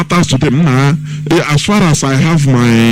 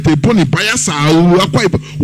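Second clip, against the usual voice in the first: imagined confrontation; 5 semitones higher than usual. Retold or imitated. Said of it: "confront and ask these people".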